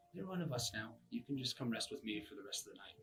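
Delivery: a hint of a squeaky rat voice; lightly voiced rat, coaxing. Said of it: "says to you as in a rat voice".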